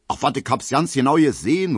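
calling out. A narrator's reading. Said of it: "ruft ein Soldat".

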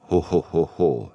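lightly voiced booming belly laugh. Brodsky laughs at his old friend, hearty laugh. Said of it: "lachte Brodsky".

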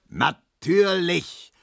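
gedehnt und höher gebrüllt. A narrator's reading. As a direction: schleuder das Wort wütend hin. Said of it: "brüllte Herr Markowski". (Markowski brüllt gedehnt)

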